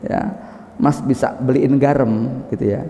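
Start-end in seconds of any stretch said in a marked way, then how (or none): 0.8-2.5 slow, sweet-talking request; unhurried, cajoling ask; gentle coaxing. Acted. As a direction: act out a wife coaxing her husband. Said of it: "sambil merajuk gitu kan ya".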